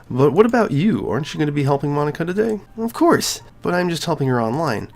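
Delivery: bubbly schoolgirl asking questions; Sayori's voice. Acted.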